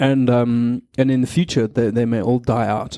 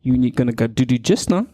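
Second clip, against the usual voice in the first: put-on baby talk. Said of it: "you say things like".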